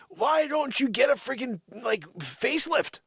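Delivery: loud, high-pitched comic rant; mock scolding. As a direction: needle her at full voice.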